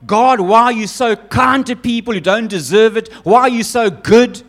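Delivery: a sulking prophet venting at God; frustrated complaint. Acted. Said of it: "He's frustrated with God".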